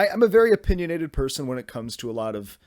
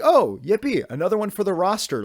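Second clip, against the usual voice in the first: higher, louder hammed-up cheer; mock delight; 6 semitones higher, 4 dB louder than usual. Viewer recalling joy at finding another feel-good movie, mock delight. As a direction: imitate your own naive glee. Acting out his naive delight.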